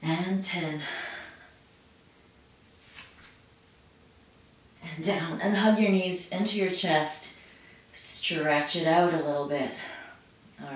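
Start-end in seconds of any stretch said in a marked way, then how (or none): 0.0-5.4 doing sit-ups. Real, not acted. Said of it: "my abs are on fire already".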